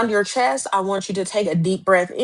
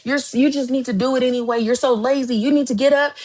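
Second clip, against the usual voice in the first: lightly raised, half-acted nagging inner voice; a mild imitation of cruel self-talk; harsh self-scolding; 4 semitones higher than usual. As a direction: berate yourself, not quite in full earnest. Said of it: "I have tried to cuss myself through some stuff".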